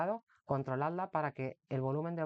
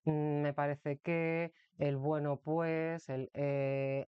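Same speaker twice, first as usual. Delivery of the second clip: hesitant filler talk; much slower than usual. Shown as a demonstration. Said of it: "lenguaje dubitativo del creo que".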